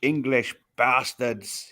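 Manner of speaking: put-on slow Scandinavian accent, drawn out. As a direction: sneer it slowly in a Scandinavian accent. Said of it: "in that Scandinavian voice".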